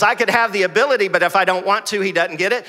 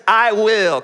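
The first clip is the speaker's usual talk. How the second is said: loud, ringing I will; preacher leading a congregational shout; shouted declaration; 4 semitones higher, 5 dB louder than usual. Real, not acted. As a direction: call it out for the crowd to echo. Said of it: "Come on, shout".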